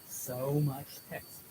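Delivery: slow, dismissive imitation of a lazy reader; mocking whiner. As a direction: drag out "So much text" slowly, bored and mocking. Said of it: "some of you are still saying".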